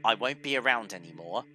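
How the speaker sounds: soft, lightly voiced princess; Zelda voice. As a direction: speak softly as Zelda. Voicing Zelda.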